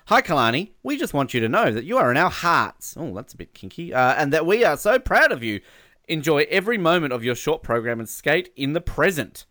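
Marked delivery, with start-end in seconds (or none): 0.1-2.9 lifted, emphatic message read-out; reading fan message. Acted. Radio host reading a family's message to an athlete, emphatic. 4.2-9.4 lifted, emphatic message read-out; reading fan message. Acted. Radio host reading a family's message to an athlete, emphatic.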